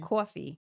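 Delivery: "coffee" as "cwawfee"; New York "coffee", first vowel pushed round; New York pronunciation. Shown as a demonstration. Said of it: "how New Yorkers say it".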